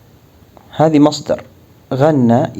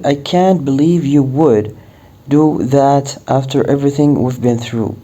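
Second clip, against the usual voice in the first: slow reproachful example; much slower than usual. Shown as a demonstration.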